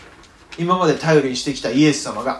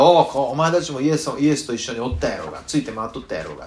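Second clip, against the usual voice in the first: rough accusing voice, fading at the end; threatening captor; faster than usual. Retold or imitated. Guard catching the disciples, rough accusing voice. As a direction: corner them like a guard. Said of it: "もし見つかったら".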